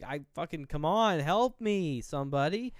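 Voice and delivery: mock frantic cry for help; desperate yell. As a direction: shout it out like she's begging the street. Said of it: "she actually gets angry".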